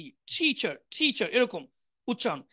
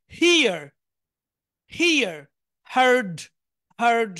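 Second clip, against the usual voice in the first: হিয়ার and হার্ড called out louder; loud drill; 6 dB louder, slower than usual. Shown as a demonstration. Teacher calling out verb forms loudly to students. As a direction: project each form to the back. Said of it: "আবার বলি".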